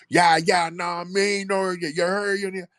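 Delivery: high, hard Brooklyn accent parody; over-the-top Brooklyn street talk; stereotypical Brooklyn accent. Shown as a demonstration. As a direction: exaggerate a deep Brooklyn accent. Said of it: "real deep Brooklyn accent".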